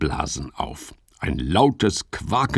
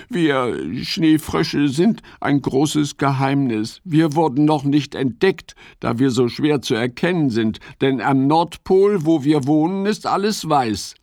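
higher, earnest little frog voice; Ole the snow frog; 6 semitones higher than usual. Acted. Ole explains his secret to Fips, earnest.

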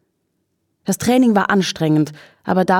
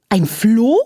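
high, appalled question; whinny it in horror, swooping upward; horrified whinny; 5 semitones higher than usual. A narrator's reading. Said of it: "wieherte Charlotte entsetzt".

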